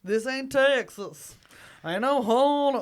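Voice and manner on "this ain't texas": slow, drawn-out Texan twang; Texan accent. Pretend. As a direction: stretch it in mock Texan.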